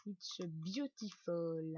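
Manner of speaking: slow, hammed-up English accent; mock English accent. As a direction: put on a proud, exaggerated English accent. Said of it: "Ah, mon accent anglais".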